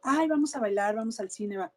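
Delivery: breezy, playful deflection; light mock-cheerful suggestion; joking it off. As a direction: toss off a carefree invite to dodge the fear. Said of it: "Me hago la chistosa".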